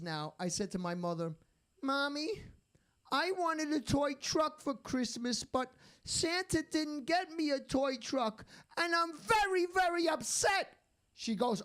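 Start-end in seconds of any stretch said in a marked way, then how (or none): 1.8-10.8 put-on whiny little-kid voice, higher throughout; mock whiny child. Thirty-year-old son complaining to his mother, mock child whine. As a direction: whimper it like a kid let down at Christmas. Grown man whining like child.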